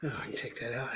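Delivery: distant, muffled voice; off mic. Real, not acted. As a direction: talk from across the room.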